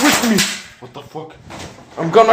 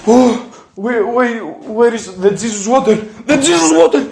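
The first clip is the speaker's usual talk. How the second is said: high, loud eager cries; high loud excited calls; 7 semitones higher, 3 dB louder than usual. Real, not acted. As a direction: grab the holy water in triumph. Finds holy water, relieved.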